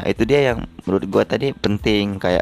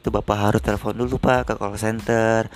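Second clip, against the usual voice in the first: proper teller. Shown as a demonstration. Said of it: "ada tata caranya gitu ngomong sama nasabah".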